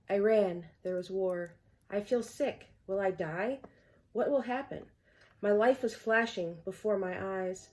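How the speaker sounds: measured poetry recital, phrase by phrase; earnest recital with short, set-apart lines; poem reading. Acted. Poet reading own poem Home to viewers, poem reading.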